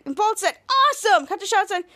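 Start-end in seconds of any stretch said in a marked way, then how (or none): 0.7-1.3 high, excited retold exclamation; excited cheer. Bolt to the team at the news, excited. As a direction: blurt it out high, thrilled. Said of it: "they're all excited".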